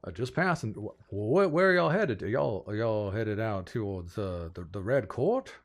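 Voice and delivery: lightly voiced Southern gentleman, puzzled; stammering Southern question; curious Southern lord president. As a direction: probe their plans with folksy hesitation. Samuel questions the travellers.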